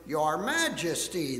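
slow, exaggerated, sarcastic bow of the voice; mock homage. Soldiers pretend to bow to Jesus, slow mock reverence. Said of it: "pretended to bow down to him".

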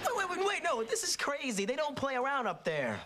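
high, urgent objection; alarmed protest. Acted. Son objecting to the trip to Harlem, alarmed protest.

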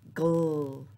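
"gl" said alone as a short onset; isolated onset "gl" for children; beginning sound isolated. Shown as a demonstration. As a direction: voice only the "gl" blend. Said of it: "tell me the beginning sound".

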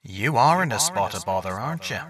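soft, wry ghost prophet; a knowing amused spirit; echoing ghost voice. Acted. Tiresias's shade speaks.

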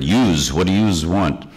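New York "yous" said twice, echoing the voice at the door; light New York imitation; New York accent. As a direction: mimic the Brooklyn "yous". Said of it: "I had heard".

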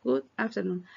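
Good morning, good afternoon read word by word; choppy reading. Shown as a demonstration. Teacher showing the wrong choppy way. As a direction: stiff separated words. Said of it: "No traten de leerlas así".

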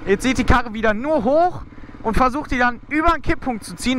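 ordinary talk

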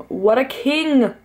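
slow, loud, high praise; adoring gush. Real, not acted. Fan doting on her bias in a photo. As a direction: dote on him.

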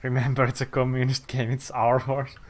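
lightly put-on Russian accent; half-committed mock Russian accent; attempted Russian accent. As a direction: try a loose Russian accent. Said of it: "doing a Russian accent".

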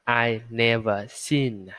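very slow, spread lips on "seen"; slow, smiling demo. Shown as a demonstration. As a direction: stretch "I never seen" with a smile. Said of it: "âm Y là phải cười ha". (đọc chậm, cười khi nói "seen")

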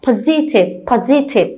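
"positive" stressed on the first syllable, PO; teacher's careful model of "positive". Shown as a demonstration. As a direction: lean on PO in "positive". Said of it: "trọng âm sẽ đứng vào âm trước đó".

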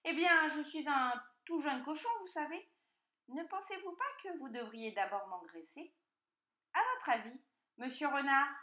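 wheedling piglet. A narrator's reading. Piglet asking the fox for a bath, wheedling. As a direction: coax as an artful little pig.

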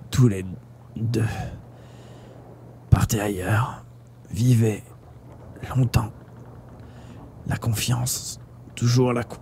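very soft, breath-broken whisper; dying last words. A narrator's reading. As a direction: gasp out each phrase between long pauses.

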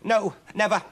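high, loud shriek; shrieking witch. Acted. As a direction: scream it while fleeing. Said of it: "shrieked Huddle".

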